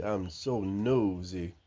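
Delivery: slow, coaxing; drawn-out teasing prompt to the hen; slow coaxing prompt for a nosy hen. Pretend.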